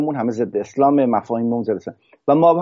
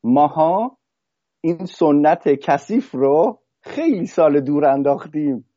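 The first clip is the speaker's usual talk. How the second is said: slow, reproachful quoted voice, set apart from the teller; quoting the man; 2 semitones higher, slower than usual. Retold or imitated. Iranian man scolds the musician over tradition, slowly reproachful. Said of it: "و گفتش که".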